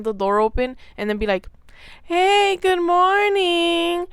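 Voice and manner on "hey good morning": high, loud fake-cheerful greeting; hella loud. Nurse slamming the door open at night, loud and high. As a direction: boom it out as if barging into the room. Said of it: "like, hella loud".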